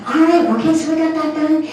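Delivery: a touch of a cheerful official; brisk clerk. Retold or imitated. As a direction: play the clerk chirping it's done. Passport clerk voiced in story.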